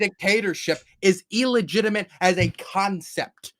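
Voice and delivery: mock preacher, loud and fervent; megalomaniac rant. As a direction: ham up a patriotic sermon.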